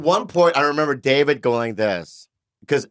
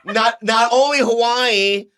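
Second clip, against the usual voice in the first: slow emphatic; 6 semitones higher, much slower than usual. Real, not acted. Building up the dream set.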